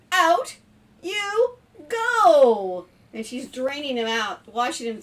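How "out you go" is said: high, loud, punched-out order; stern mock shout. Mom sending the spider down the drain, mock stern shout. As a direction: banish it in pretend outrage.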